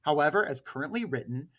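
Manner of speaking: steady formal read of a quoted statement. Acted. Host reading the advocacy group's statement to listeners, formal. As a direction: read it out like an official notice.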